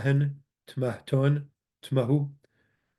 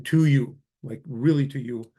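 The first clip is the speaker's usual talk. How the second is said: TO YOU said firmly and emphatically; stress on TO YOU. Shown as a demonstration. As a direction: lean on the words "to you" for emphasis. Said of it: "is just emphasizing".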